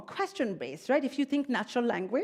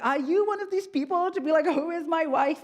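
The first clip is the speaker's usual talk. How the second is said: mock accusing; 7 semitones higher, 5 dB louder than usual. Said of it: "I go to my husband and I'm like".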